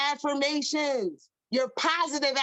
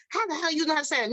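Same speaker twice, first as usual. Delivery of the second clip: shocked; 3 semitones higher, faster than usual. Retold or imitated. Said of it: "you be like".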